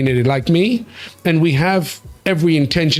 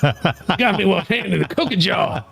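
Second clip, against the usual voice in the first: put-on Southern and Black accent. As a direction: confess like a hammed-up Southern sheriff. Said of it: "That's a mixture of Southern and black".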